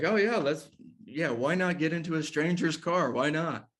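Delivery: high, ironic self-mockery; mock your own bad idea; sarcastic. Teller mocks himself for getting in, high sarcasm. Mocking his own choice.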